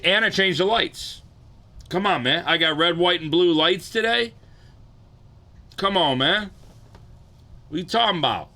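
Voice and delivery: high, loud and pumped; hyped up. Real, not acted. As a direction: brag about the new lights.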